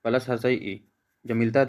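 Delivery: slow, deliberate vowel sum for students; slow explaining. Shown as a demonstration. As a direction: lay out each vowel slowly, step by step. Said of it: "तो देखिए इसमें क्या होता है?".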